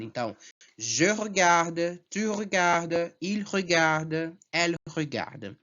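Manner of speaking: slow je regarde, tu regardes, all said the same; French conjugation drill. Shown as a demonstration. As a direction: model each pronoun and regarde clearly. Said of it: "é a mesma pronúncia".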